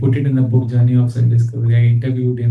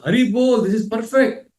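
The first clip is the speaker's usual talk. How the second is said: dying devotee's quote; 8 semitones higher than usual. Retold or imitated. Dying devotee's thumbs-up words.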